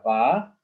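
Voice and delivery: BA held alone as one open syllable; single syllable. Shown as a demonstration. Teacher isolating one syllable by itself, drawn out. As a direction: sound out "ba" by itself. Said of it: "this is one syllable by itself".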